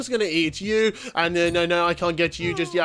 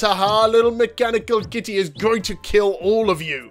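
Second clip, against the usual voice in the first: cartoon villain gloat, a bit high; 3 semitones higher than usual. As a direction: gloat like a tiny evil robot. Gloating over the rats.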